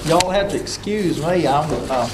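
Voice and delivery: numb mouth after dentist; marbles in mouth. Real, not acted. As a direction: talk through a numb mouth. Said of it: "I've got marbles in my mouth".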